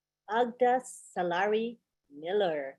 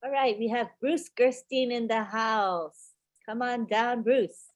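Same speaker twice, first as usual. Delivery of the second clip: loud call-up; 4 semitones higher, 6 dB louder than usual. Real, not acted. Host calls next speaker up.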